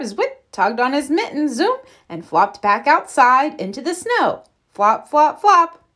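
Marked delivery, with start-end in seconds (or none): 4.7-5.8 building, last flop high and loud; playful flop rhythm; flopping sounds. A narrator's reading. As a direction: bounce the flops, landing big on the last.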